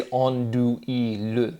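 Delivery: "andouille" drawn out as on-do-ee-le; final syllable pronounced. Shown as a demonstration. Arguing for consistent spelling, final syllable pronounced. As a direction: say "andouille" with every syllable, ending on le. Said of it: "I keep wanting to say".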